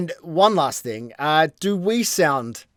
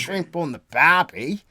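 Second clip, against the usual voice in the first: mock Australian echo; slower than usual. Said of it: "So he speaks like Bogan".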